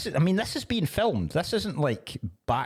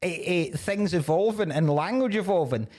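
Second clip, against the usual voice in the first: exasperated retort; 5 semitones higher than usual. Retold or imitated. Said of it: "And you're like".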